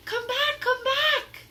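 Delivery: high, loud pleading shout. Acted. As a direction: beg him to come back. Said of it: "Annie shouted".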